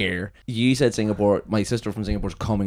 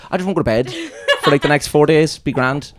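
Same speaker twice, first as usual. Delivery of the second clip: laughing quote; 5 semitones higher, 6 dB louder than usual. Retold or imitated. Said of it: "The many times we said".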